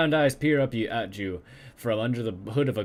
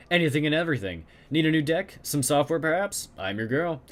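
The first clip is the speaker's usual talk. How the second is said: put-on German accent; 4 semitones higher than usual. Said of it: "heavily accented German".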